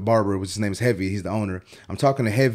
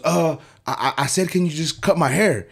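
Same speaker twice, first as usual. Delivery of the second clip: stammering, higher-pitched imitation of a cowed client; sheepish backtracking; 6 semitones higher than usual. Client backing down after barber challenges him, sheepish. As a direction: backpedal with a hesitant, innocent plea.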